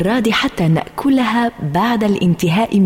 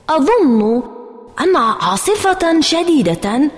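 higher, hesitant, inventing a storm; hurried excuse; 3 semitones higher than usual. A narrator's reading. Girl blaming a storm, hurried and pitched high. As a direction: scramble for a new excuse. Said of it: "قلت بسرعة".

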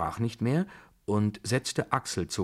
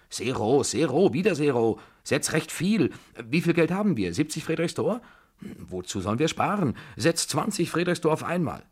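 high, loud, feverish orders; eager, imperious outbursts; excited insistence; 8 semitones higher, 4 dB louder than usual. A narrator's reading. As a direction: demand the bet like a gambler on fire. Gambling old lady ordering bets.

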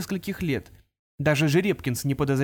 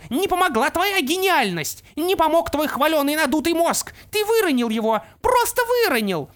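gloating pixie; 13 semitones higher, 4 dB louder than usual. Acted. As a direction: crow over the fallen enemy. Opal gloats at Artemis.

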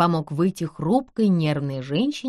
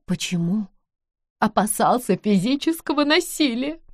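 выше обычного, тревожно, дрожа от волнения; отвечай встревоженно, чуть срываясь вверх; взволнованная вдова; 5 semitones higher than usual. Acted. (вдова отвечает Нэнси о встрече мужа: тревожно)

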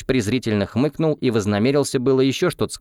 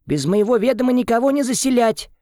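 mimicked boss. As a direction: bark out the boss's order in caricature. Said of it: "прилетел он ко мне на ресепшн и говорит".

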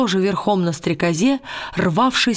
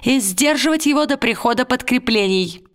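lightly raised, crisp military report voice; formal spy report; 3 semitones higher than usual. Acted. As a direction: read it like a tiny soldier reporting to his lord. Tialis sends his report.

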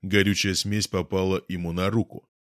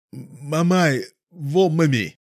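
high mumbling through closed lips; talking with mouth closed; 7 semitones higher, 4 dB louder, much slower than usual. A narrator's reading. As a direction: hum it with mouth shut, louder. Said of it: "промычал он".

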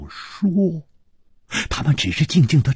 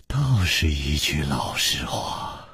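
smiling; 7 semitones lower, 6 dB quieter, slower than usual. A narrator's reading. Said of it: "楚留香微笑着说".

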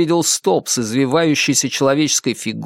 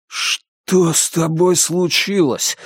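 squeezed out; 5 semitones higher, slower than usual. Acted. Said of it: "выдавил я".

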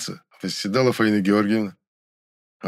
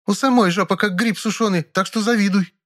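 catty; 11 semitones higher than usual. A narrator's reading. Rival's catty insult.

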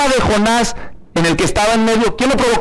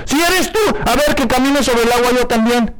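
Peter's dare; 4 semitones higher than usual. Retold or imitated. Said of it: "Les dijo".

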